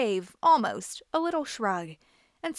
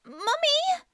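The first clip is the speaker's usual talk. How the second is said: calling again. A narrator's reading. Girl calls her mother a second time, higher and more urgent. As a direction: call out again, more desperate. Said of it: "she called".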